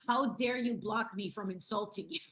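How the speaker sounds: hammed-up affronted protest; mock indignation. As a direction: imitate an outraged troll who got blocked. Mimics offended blocked troll.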